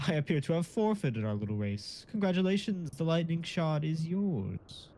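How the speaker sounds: lightly voiced game character; hint of an unearthly narrator; disembodied voice. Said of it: "I can be disembodied voice".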